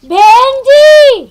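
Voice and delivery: long drawn-out mocking echo; mocking quote. Mother-in-law throwing back what she was called, mocking quote. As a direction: stretch the address out accusingly. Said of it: "वहाँ तो क्या कह रही थी मुझे?".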